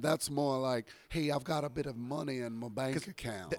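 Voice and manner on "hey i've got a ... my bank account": put-on genteel Southern accent. Speaker discussing Southern accents with another speaker, doing the genteel Southern accent. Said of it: "you get the genteel southern accent in Atlanta".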